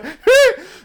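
loud, high real laugh; high cackle. Real, not acted. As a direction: burst out cackling. Laugh after hillbilly impression.

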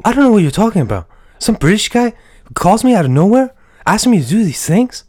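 lightly voiced gruff action hero; lightly played muscle man; Mark.

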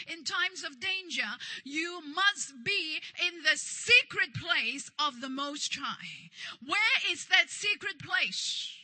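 measured, insistent sermon delivery; emphatic preaching. Real, not acted. Preacher urges congregation into the secret place, emphatic preaching. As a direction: drive the list home like a preacher.

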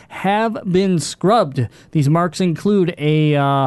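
measured article read-out; steady podcast newsreader delivery; news read. Real, not acted. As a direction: read the gaming news story aloud. Host reads out news article.

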